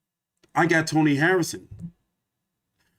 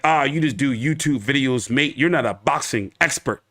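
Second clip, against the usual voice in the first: mock Aussie critic; 4 semitones lower than usual. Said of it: "people be like".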